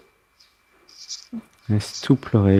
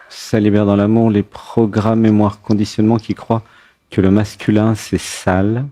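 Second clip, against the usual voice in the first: guided affirmation. Acted. Leads a release affirmation.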